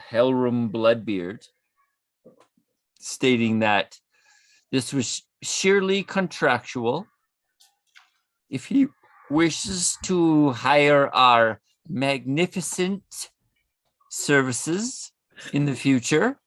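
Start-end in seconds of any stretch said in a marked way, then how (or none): 4.7-16.4 slurring tipsy letter reading; drunken voice. Acted. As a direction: read it like a drunk. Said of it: "Has Nightingale been drinking?".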